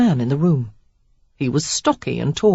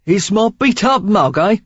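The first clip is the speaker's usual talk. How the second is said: rueful Cockney quip, louder; self-mocking Cockney rogue; Cockney accent; 4 semitones higher, 4 dB louder than usual. A narrator's reading. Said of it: "Cockney in his accent".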